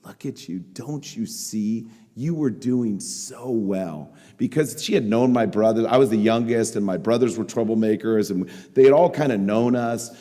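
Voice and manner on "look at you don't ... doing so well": soft, slow retelling of a tearful plea; hushed and halting, imitating someone upset; understated imitation of crying disappointment. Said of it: "She started crying".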